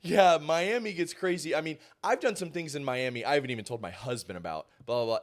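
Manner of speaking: breezily overshare on air; lightly voiced TV guest; imitating the anchor. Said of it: "she's like".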